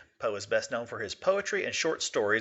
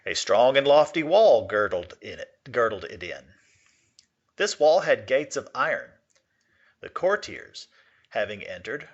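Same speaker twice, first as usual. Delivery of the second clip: measured classroom read-aloud of a Poe tale; story narration. Acted. Teacher reads Poe story aloud.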